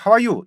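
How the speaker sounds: "how are you" with open 하우; Korean-style mispronunciation. Shown as a demonstration. Teacher recalls the faulty greeting, Korean-style "how are you". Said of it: "이렇게 된다 했잖아요".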